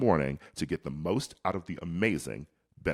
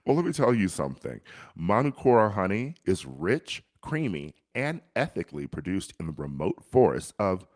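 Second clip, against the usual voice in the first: put-on hammy New Zealand accent; mock Kiwi ad read; 3 dB louder than usual. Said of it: "Your New Zealand accent is definitely your worst yet".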